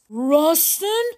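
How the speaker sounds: alarmed leader's high-pitched question; fearful stammer. Acted. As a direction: ask it in dread. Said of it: "she stammered".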